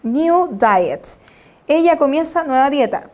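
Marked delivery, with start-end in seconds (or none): 0.0-1.2 she starts said very slowly and carefully; slow model sentence. Shown as a demonstration. Teacher reading an example to students, very slow. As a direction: read the example at half speed.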